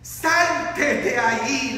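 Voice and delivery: slow, drawn-out command; mild preacher's shout. Retold or imitated. Preacher voices Jesus calling Lázaro from the cave, mild shout. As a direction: call out the order slowly. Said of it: "le grita".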